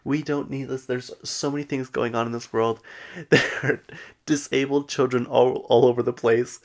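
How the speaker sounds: retold tearful protest, no real sobs; mock crying. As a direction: imitate an upset plea, lightly hammed up. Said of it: "Meredith starts crying".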